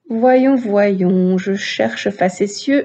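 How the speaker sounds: slow, drawn-out thinking aloud; searching aloud. Acted. Player hunting through the dictionary for a word, searching aloud. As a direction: draw the words out while scanning the pages.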